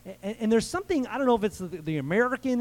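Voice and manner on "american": slight Southern twang on "American"; Southern accent. Real, not acted. Preacher owning up to the American in him, light Southern accent. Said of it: "I use a Southern accent when I say American".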